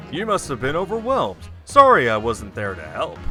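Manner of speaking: punchy announcer voice; sportscast announcer. Acted. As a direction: read it like a game-show host. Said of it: "like a sportscast announcer".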